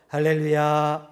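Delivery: slow, put-on churchy smile in the voice; fake smiling hallelujah. Pastor mimics a churchgoer's masked greeting, sugary and slow. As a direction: smile sweetly as if nothing happened. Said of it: "싹 웃으면서 아무 일도 없었던 것처럼".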